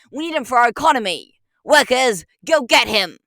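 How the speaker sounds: rally the workers, loud; commanding shout. Acted. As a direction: boss ordering workers to attack. Detective orders workers to attack.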